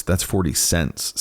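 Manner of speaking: slow, a touch of sadness; tinge of sadness. Acted. Manager explaining the coins to the detective, with a touch of sadness. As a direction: say it slowly, with a hint of pity. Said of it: "there's a tinge of sadness in his voice".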